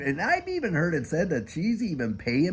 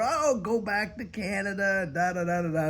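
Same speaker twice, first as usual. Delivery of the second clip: pitched-up sneering commenter voice; mocking angry commenter; 8 semitones higher than usual. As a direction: lightly parody an upset troll. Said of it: "they're freaking out so much".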